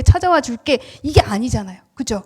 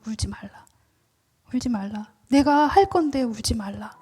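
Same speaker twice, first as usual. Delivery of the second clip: much softer, gentle; tender comfort; 5 dB quieter than usual. Acted. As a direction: hush the crying softly. Jesus' words softly voiced. (아주 부드럽게 달래는 음성)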